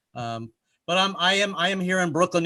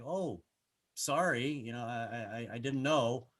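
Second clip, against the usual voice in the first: sheepish; 4 semitones lower, 8 dB quieter than usual. Retold or imitated. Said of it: "I was like".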